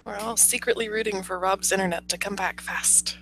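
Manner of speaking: hushed whisper. Real, not acted. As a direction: whisper it secretly. Whispered aside during call.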